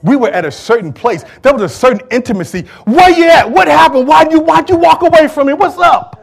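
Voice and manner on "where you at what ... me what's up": higher, louder pleading call; God calling out to a wandering child. Retold or imitated. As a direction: call out like a hurt friend. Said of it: "God was saying".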